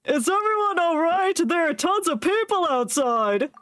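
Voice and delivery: high, chirpy companion voice; Paimon voice. Pretend. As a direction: voice the little sidekick. Voicing Paimon's dialogue lines.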